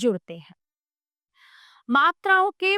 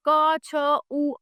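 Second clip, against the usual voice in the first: slow letter by letter; much slower than usual. Shown as a demonstration. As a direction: spell out क, छ, उ as slow, separate sounds. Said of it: "spelling out letters slowly". (धीरे-धीरे अक्षर अलग-अलग बोलना)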